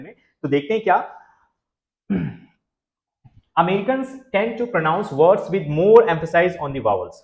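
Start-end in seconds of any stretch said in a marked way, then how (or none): 3.6-7.1 slow, careful read of the English line; slow reading aloud. Shown as a demonstration. Teacher reading the slide to students, slow and careful. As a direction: read it out slowly for the class. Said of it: "American जो है ज्यादातर".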